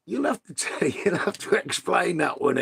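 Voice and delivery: "You'll have to" breaks into a laugh, pitch jumping up high; amused, barely holding it together. Real, not acted. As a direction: giggle your way through "explain that one". Cracking up at the joke.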